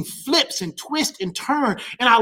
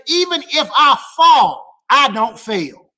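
proclaiming declaration; 2 semitones higher, 5 dB louder than usual. Real, not acted.

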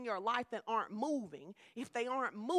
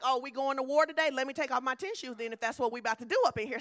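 ready to fight; 4 dB louder, faster than usual. Retold or imitated. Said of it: "I'm more like".

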